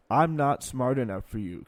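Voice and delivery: loud, slow sarcastic jab. Retold or imitated. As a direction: sneer it out mockingly, slowly. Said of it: "Kissinger said sarcastically".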